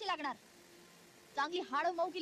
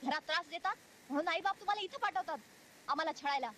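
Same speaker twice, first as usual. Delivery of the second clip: angry berating. Acted. Teacher scolds child who tried to run away, angry. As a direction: rage at the runaway pupil.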